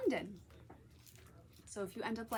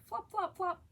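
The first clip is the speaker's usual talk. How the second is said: sound effect; 9 semitones higher than usual. A narrator's reading. Frog footstep sounds.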